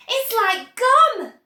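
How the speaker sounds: high, loud, slow bratty cry; pushy girl interrupting; Violet crying out. Acted. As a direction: blurt it out smugly. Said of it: "cried Violet Beauregarde".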